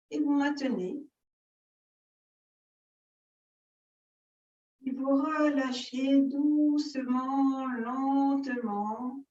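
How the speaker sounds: measured yoga-teacher guidance with long pauses; unhurried breathing-exercise guidance; guided yoga instruction. Real, not acted. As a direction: lead the breathing exercise phrase by phrase, drawing out the key words.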